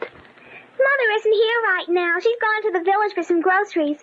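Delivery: put-on slow, careful child's voice; little girl voice. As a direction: speak like a small polite girl. Child speaking slowly.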